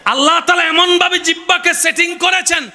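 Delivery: fervent preacher in full cry; impassioned preaching. Acted. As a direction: preach it high and ringing, stretching the phrases. Preaches at high pitch.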